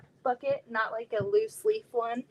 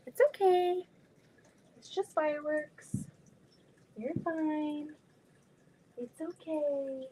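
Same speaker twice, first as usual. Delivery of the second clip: higher, gentle reassurance for a pet; soothing; 5 semitones higher than usual. Real, not acted. Soothing scared dog during fireworks.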